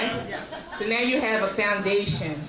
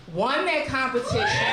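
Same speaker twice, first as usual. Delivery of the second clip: excited shout; 11 semitones higher than usual. Real, not acted. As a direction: shout it out in triumph. Announcing her contest win.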